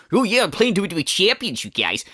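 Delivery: mock quote. Commentator mocking the streamer's heel persona, smug mimicry. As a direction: sneer it like a proud heel. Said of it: "This, uh, whole".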